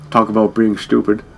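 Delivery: loud, punched-out one-liner; mock movie quip. Player parodying movie one-liners, loud mock quip. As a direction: hit it like a hammy punchline.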